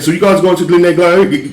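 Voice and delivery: lightly put-on British accent asking about Glendale Galleria. Driver putting on a British accent for passengers. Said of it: "when I put the British accent on".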